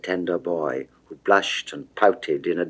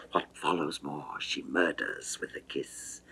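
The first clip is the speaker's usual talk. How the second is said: much softer, a whispered aside; hushed whisper; 5 semitones lower, 10 dB quieter than usual. A narrator's reading. Narrator dropping to a whisper as Venus silences Adonis with a kiss. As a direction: let the line vanish into a whisper.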